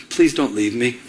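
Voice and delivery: gentle retold plea, pitched low; loving plea. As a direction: imitate a wife pleading tenderly, low. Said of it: "looked at me with love".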